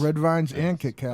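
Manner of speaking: talking round candy; mouth full. Real, not acted. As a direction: say it while chewing. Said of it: "You got your mouth full again".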